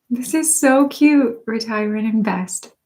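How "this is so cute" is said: ordinary talk, nothing marked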